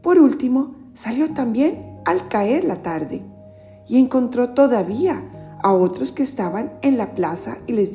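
storyteller reading scripture; Gospel reading. Acted. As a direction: clear read-aloud narration. Reads the Gospel aloud.

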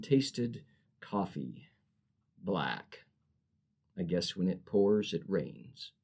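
rhythmic, cadenced poem recital; poem reading. Acted. Poet reading her drive-thru poem to host, cadenced. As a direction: lean into the rhyme and rhythm.

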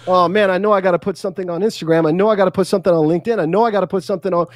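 fast, rattled listing of must-dos; fast mock panic over posting; flustered rush. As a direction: gabble it like a panicked poster. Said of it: "scratching your head on Wednesday saying".

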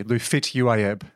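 "Lufit Uayeb" said slowly as reversed beautiful; backwards speech. Shown as a demonstration. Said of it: "you give me a word".

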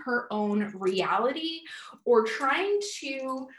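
talking around a hair tie in mouth; mouth full. Real, not acted. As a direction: speak with a hair tie between your lips. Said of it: "I have my hair thing in my mouth".

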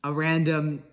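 talking with a retainer in; wearing a retainer. Real, not acted. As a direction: retainer in, slightly lispy speech. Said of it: "I got my retainers in, so this outro is gonna sound very disgusting".

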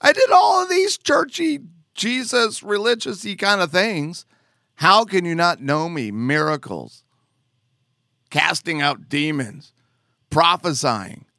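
a hint of a wounded churchgoer; defensive protest. Preacher voicing churchgoers protesting to Jesus, mildly indignant. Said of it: "they start going".

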